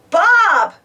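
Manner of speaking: high, loud burst; sudden exclamation. Acted. Muck suddenly spotting Bob on the road, startled. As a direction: blurt out the name.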